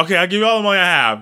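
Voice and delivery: very fast nervous gabble; fast mock plea; rushed quote. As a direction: blurt it out in a rush.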